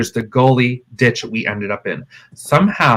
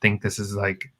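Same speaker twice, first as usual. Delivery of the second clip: hushed worry; 4 semitones lower, 6 dB quieter than usual. Retold or imitated. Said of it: "she's like".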